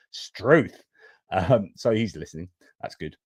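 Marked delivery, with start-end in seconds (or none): 0.1-0.8 hammed-up Aussie exclamation; mock Australian accent. Host reading a viewer's WhatsApp message, mock Australian accent. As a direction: read it out with an Australian twang. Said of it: "it's cultural appropriation time".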